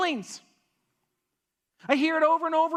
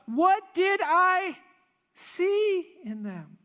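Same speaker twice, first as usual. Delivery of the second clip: baffled; 7 semitones higher, much slower than usual. Pretend. Baffled looking back at an ex.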